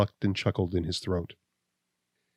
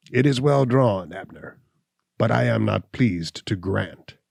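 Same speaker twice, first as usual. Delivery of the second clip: hunchback weighing a deed. Acted. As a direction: savour the legal words, then refuse. Gall reads the deed.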